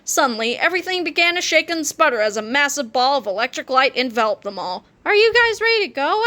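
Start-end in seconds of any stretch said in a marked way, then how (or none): 5.0-6.2 put-on high, excited kid voice; bouncing kid asking the team; eager kid Harold. A narrator's reading. Harold asks the others before time travel, eager kid voice. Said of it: "asked Harold".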